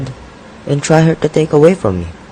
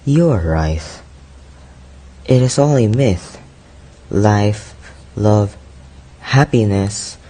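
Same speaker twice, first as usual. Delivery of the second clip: dejected; 2 semitones lower, 4 dB quieter than usual. Acted. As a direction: speak softly, sinking into disillusion. Youth despairs of love and life.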